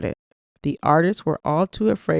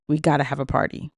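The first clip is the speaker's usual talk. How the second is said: excitedly; faster than usual. Acted. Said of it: "He told me excitedly".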